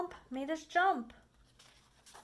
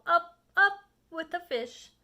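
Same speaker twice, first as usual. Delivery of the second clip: higher, louder sing-song flourish; showy excitement; 5 semitones higher, 8 dB louder than usual. Acted. The Cat showing off his game to the children, higher and loud. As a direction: announce it like a circus trick.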